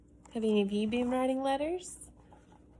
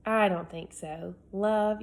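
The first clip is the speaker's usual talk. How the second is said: put-on indignant boy; 3 semitones higher than usual. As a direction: argue it like an oldest child wronged. Reads Alex's letter aloud.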